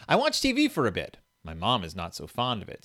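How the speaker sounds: put-on reading to a toddler. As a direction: read it like to a baby. Reads baby book aloud.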